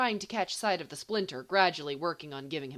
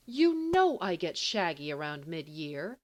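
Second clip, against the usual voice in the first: injured; 4 dB louder than usual. Acted. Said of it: "sounding injured".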